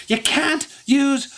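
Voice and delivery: very high, exasperated scolding; mad Trixie. Acted. Mad Trixie lectures crying Effie, angry high voice. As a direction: hammer the point home in a high angry voice. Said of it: "kinda looking really mad".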